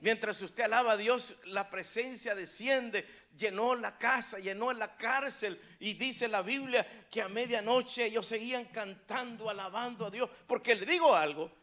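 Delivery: loud bursts on key phrases; fervent preaching. Acted. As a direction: preach it forcefully to the congregation. Preaches with rising force.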